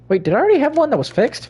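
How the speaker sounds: very high, fast, loud alarm; panicked. Real, not acted. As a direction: blurt it out in sudden panic. Sudden panic at mistake.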